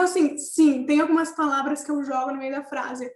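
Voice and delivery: ordinary talk, nothing marked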